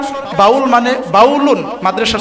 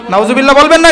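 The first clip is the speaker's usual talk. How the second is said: না lifted, the prompt said louder; 4 semitones higher, 5 dB louder than usual. Real, not acted. Preacher prompts the crowd to say it louder. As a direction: coax a louder response. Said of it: "একটু আওয়াজ দিয়ে বলেন".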